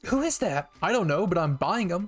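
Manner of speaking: high, loud gushing over cute things; bubbly sponsor gush; excited gushing. Acted. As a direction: squeal about how adorable they are. Excited ad pitch for figures.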